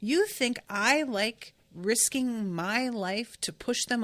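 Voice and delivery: slow, each word laid out deliberately; slow, pointed reading. Shown as a demonstration. To her viewers, rereading the villain's line slowly and pointedly. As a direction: read it slowly so the listeners catch every word. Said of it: "I want you guys to really pay attention to this".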